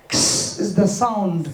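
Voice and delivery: "X" as a bare hissed ks; sound of X. Shown as a demonstration. Teacher modelling for pupils, "X" as a vowelless ks. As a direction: make "X" only ks, no vowel. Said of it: "sound add করা যাবে না".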